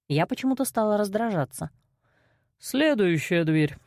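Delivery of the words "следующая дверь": gruff man voice. A narrator's reading. Kostey's voice in story.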